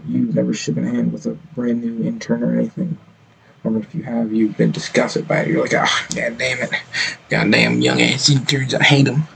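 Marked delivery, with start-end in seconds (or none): 5.7-9.2 mock disgust. Mocking someone disgusted by young interns, mock-disgusted outburst. Mocks an imagined disgusted older person.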